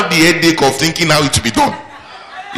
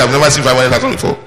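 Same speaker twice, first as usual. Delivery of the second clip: doubtful talk; much faster than usual. Shown as a demonstration. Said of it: "Don't say, don't say".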